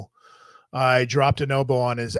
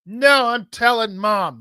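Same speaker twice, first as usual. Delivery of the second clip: put-on whiny kid brother; 8 semitones higher than usual. Brother voiced in story.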